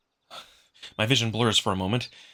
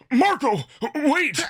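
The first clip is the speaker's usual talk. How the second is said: high, loud call after someone leaving; 5 dB louder, slower than usual. Acted. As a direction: shout for him to stop as he runs off. Amicus calls after fleeing Marco.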